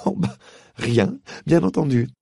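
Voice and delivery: girl mocking him sarcastically; sarcastic. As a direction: lay the irony on thick. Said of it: "d'un ton sarcastique".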